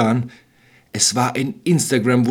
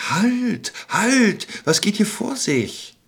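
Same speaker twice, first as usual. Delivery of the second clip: high, firm call to halt, then slower; gentle but determined; 11 semitones higher, much slower than usual. Acted. Stranger stops the witch, gentle but determined. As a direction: stop them gently but firmly. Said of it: "eine sanfte, aber sehr entschlossene Stimme".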